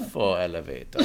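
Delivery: a hint of Bond villain purring "Faux elevator"; lightly sinister villain read. Shown as a demonstration. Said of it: "tapping my fingers as the evil villain does in every Bond film".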